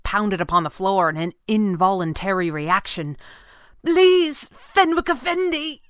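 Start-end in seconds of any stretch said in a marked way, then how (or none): 3.8-5.8 high, loud desperate cry; pinned man cries out to Fenwick in pain. Acted. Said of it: "he cried".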